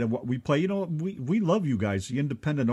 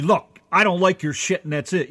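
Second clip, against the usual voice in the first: lightly acted pushy critic; 2 semitones higher, 4 dB louder than usual. Co-host mimics a pushy critic, pushy. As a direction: say it blunt and a touch louder. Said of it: "one of those pushy".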